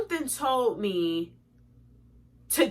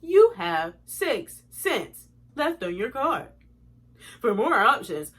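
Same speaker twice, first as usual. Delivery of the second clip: slow, measured automated voice; customer service recording; slower than usual. Retold or imitated. Imitating gift card balance line to viewers, slow automated readout. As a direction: recite it word by word like a phone menu. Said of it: "I called the customer service number".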